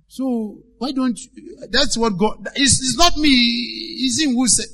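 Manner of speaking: a hint of a scared servant boy apologizing; timid pleading. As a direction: beg gently, half afraid to speak. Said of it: "I could imagine he was saying it like this".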